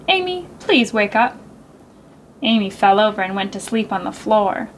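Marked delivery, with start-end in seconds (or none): 0.1-1.3 very nicely. Acted. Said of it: "said very nicely".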